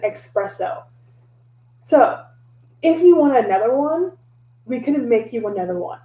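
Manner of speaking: mild mock indignation; imagined angry retort. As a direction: snap back at the rude customer, in your head. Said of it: "I didn't say any of that".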